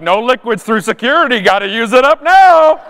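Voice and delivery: bossy announcer voice, rising up loud at the end; barking the liquids rule at travellers; mock security guard. Mock guard shouting rules at travellers.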